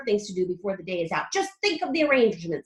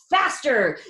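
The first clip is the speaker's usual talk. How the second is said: louder urging; eager cry; 7 dB louder than usual. A narrator's reading. Wonka banging the wall, urging it faster. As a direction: egg the lift on. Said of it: "cried Mister Wonka".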